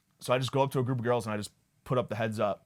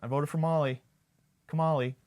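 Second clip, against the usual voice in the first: higher-pitched, affectionate nickname delivery; true Kamala supporter; 5 semitones higher than usual. Acted. Comic claiming kinship with the candidate, as a true supporter. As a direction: put on an over-familiar devoted fan. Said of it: "I say it like a true Kamala supporter".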